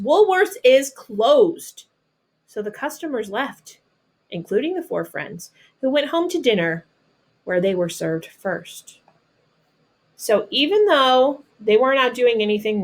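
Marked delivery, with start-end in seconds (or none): 0.0-1.8 slow, loud announcement; store announcement. Acted. Store manager announcing to customers, slow loud announcement. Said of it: "he announced". 2.5-9.0 expressive storybook reading voice; reading to children. Acted. Teacher reading a picture book to her students, storybook narration.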